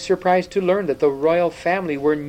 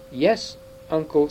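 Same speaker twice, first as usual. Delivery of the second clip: sobbing; 4 semitones higher than usual. Acted. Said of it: "sobbed Caspian".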